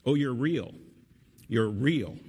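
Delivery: lightly voiced joyful exclamation; cried out. A narrator's reading. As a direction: read it as a child's amazed cry. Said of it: "cried Lucy".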